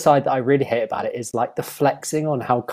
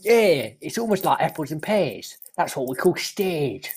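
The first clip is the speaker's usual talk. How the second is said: a light put-on Cockney accent; lightly voiced Cockney bloke; David Cockney; 5 dB quieter than usual. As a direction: play a cheeky Cockney geezer, lightly. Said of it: "It's David Cockney".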